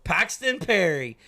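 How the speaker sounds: slow drawn-out winner's name call; sprint car announcer. Shown as a demonstration. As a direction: announce the driver's name to the grandstand. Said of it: "Okay, sprint car announcer".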